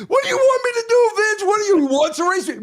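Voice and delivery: put-on high, fast French-accented reply; imitating a French driver asking if he should race. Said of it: "in that French accent".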